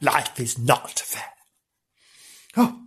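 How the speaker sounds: low, soft and slow, sinking into self-pity; mock mournful. Thinking of her own life, low and slow self-pity. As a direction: sigh it out like a tired martyr.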